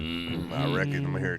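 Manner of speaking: Sling Blade voice. Retold or imitated. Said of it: "sounds like Sling Blade".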